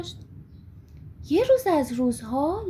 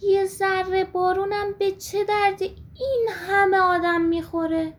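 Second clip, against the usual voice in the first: wistful sigh; 3 semitones higher than usual. Acted. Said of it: "یه آهی کشید و گفت".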